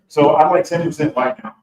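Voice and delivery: a bolder second take of the joke; confident retake. Shown as a demonstration. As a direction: deliver it again with conviction. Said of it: "let's go through that scene again".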